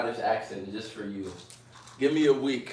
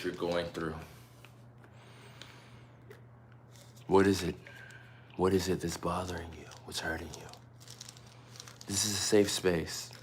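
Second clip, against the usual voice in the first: mock therapist; 3 semitones lower than usual. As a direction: coax them gently to open up. Plays counsellor comforting the viewer.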